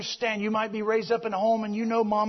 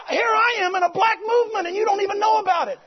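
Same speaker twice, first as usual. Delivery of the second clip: higher and louder, proclaiming; emphatic retort; 7 semitones higher, 3 dB louder, faster than usual. Retold or imitated. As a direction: declare it right to his face. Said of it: "I said".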